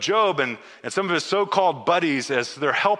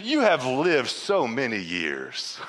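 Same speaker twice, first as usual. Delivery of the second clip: teasing God voice; 4 semitones lower, slower than usual. Retold or imitated. God teasing Job, speaker finds funny.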